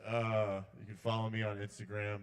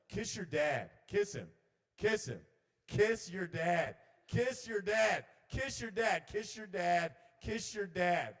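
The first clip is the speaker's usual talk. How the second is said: high, loud, insistent chant; nagging intrusive thought; 7 semitones higher, 5 dB louder, slower than usual. Acted. Intrusive thoughts nag a son in the car, loud insistence. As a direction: repeat it like a relentless urge, pitched up. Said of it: "my intrusive thoughts were like".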